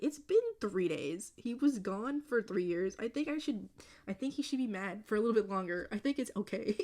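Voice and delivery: mock-outraged protest at a character; exasperated rant. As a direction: insist on every word as if arguing with the book. Ranting at fictional characters.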